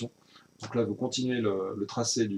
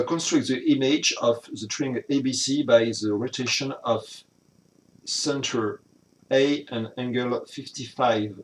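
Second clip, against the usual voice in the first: English read slowly with a heavy French accent; French-accented English read aloud carefully; 4 dB louder, slower than usual. Real, not acted. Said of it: "vous avez profité de mon accent".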